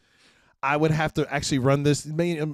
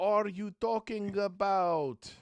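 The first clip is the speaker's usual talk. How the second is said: incredulous retort; 7 semitones higher, 4 dB quieter than usual. Retold or imitated. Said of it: "I'm like".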